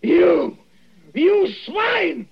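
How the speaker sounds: high strained furious shout; rasping strained mutant. Acted. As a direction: scream it at him in terror and rage. Poisoned man screams at his poisoner.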